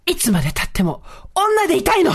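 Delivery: mock outburst, high and sharply punched; retold confrontational outburst. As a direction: blurt it out high, imitating an affronted older woman. Retold sudden outburst from boss's wife.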